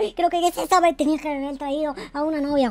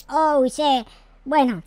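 ordinary talk

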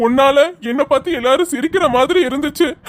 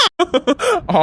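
bashful laugh; 6 semitones higher than usual. Acted. Husband laughs at wife's tease.

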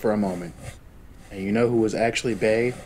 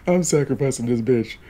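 laughing through the words; 4 dB louder than usual. Real, not acted. Streamer announcing Chloe's sacrifice, laughing. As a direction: giggle it out, can't keep a straight face.

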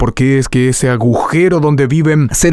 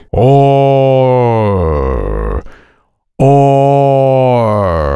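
resonant placed tone. Shown as a demonstration. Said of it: "La voz irá por aquí".

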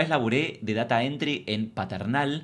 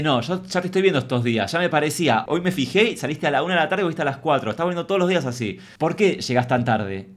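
louder, scolding like a mother; scolding mom; 3 semitones higher, 4 dB louder than usual. Retold or imitated. Boss scolding the late employee like a mom. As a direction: tell her off like a mom at a teenager. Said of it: "era mi mamá".

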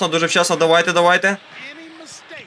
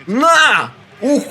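high, loud yell; a short celebratory yell; triumphant shout; 9 semitones higher, 4 dB louder than usual. Real, not acted. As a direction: yell it as the ball goes in. Big play in game.

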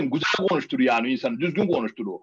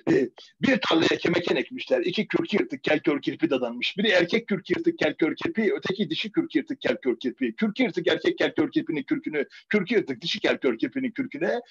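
long tongue twister recital. Shown as a demonstration. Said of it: "Ulan ne güzel söyledin".

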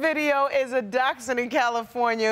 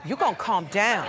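stern mama voice; 3 semitones lower than usual. Pretend. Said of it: "I'm about to put my mama face on".

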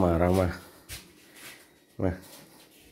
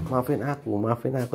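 soft, higher mock plea; film-style pleading; 3 semitones higher, 5 dB quieter than usual. Husband mimics Bawang Putih film, soft mock pleading. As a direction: beg like a film character. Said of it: "Kayak di film itu".

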